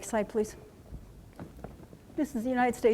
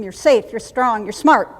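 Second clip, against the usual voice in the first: firm, louder drill-instructor delivery; field command voice; 6 dB louder than usual. Shown as a demonstration. Instructor demonstrates calming words for the gunny, field command voice. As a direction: punch each short phrase like a command. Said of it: "say this in a field command voice".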